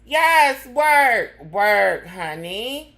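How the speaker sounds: high, loud yes work work; shouted cheer. Real, not acted. Cheering the subway announcer, a loud ballroom cheer. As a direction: cheer her on like a ballroom crowd.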